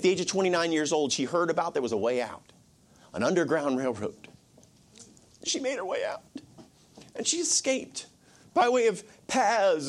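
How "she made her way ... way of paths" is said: breathy hush of a secret escape; whisper. Acted. Preacher hushing the congregation about her escape, whispered. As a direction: drop to a whisper for the flight.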